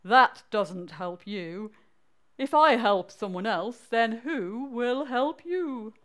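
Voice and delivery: slow, drawn-out, lightly voiced mole. Mole questions the frog's advice, slow light character voice. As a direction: stretch out the puzzled questions a little. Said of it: "said the mole".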